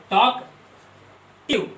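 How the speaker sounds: टॉकटिव drawn out very slowly, syllable by syllable; split into syllables. Shown as a demonstration. Teacher demonstrating the syllables of the word, very slow. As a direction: break टॉकटिव into parts at a crawl. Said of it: "ऐसे दो syllable इस case में भी होंगे".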